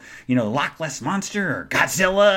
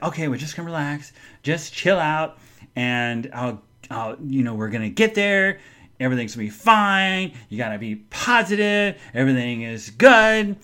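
self-soothing. Retold or imitated. Talking self into staying calm.

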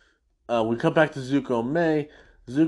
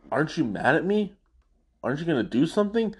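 fast, raised, egging him on; quick, higher goading; 4 semitones higher, much faster than usual. Retold or imitated. Hakoda goading the tough prisoner, quick and pitched up. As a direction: rattle it off like a needling taunt. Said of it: "and he goes".

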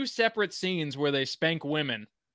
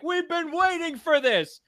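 high, loud laughing shout; hammed-up excitement, pitched way up; mock cheering crowd; 13 semitones higher, 4 dB louder than usual. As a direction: yell it out in gleeful disbelief. Acts out cheering town, laughing.

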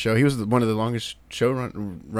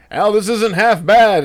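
slow, higher mock grumpy old man; old Muppet heckler; 8 semitones higher, 5 dB louder, slower than usual. Host retells joking with Al at the game, as an old heckler. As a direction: play the old balcony heckler. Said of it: "two old guys from the Muppets".

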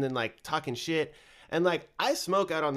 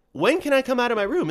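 imitating child; 10 semitones higher, 6 dB louder than usual. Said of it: "She's like".

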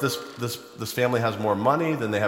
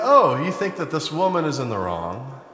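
mock-indignant Jesus; 6 semitones higher than usual. Jesus rebukes Simon the host.

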